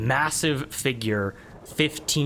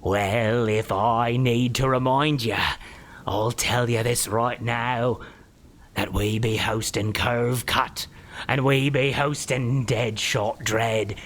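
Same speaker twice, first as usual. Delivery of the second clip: troll explaining; 3 semitones lower than usual. Acted. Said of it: "as it goes".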